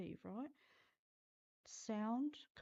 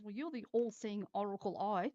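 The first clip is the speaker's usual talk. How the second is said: teasing husband voice; 7 dB louder than usual. Retold or imitated. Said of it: "and he goes".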